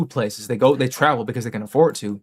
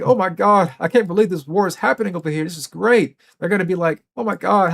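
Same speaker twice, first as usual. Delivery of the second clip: mock tourist; 6 semitones higher than usual. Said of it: "Travel to fucking Italy and be like".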